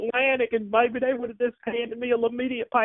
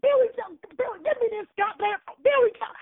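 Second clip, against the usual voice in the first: mock phone grab; 8 semitones higher, faster than usual. Woman grabs the phone from Billy.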